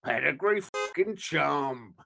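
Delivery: put-on slow gangster-accent slogan; Joe Pesci. Dog food commercial tagline, slow gangster impression. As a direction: draw out the brand like a gangster. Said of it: "you should do it in that accent".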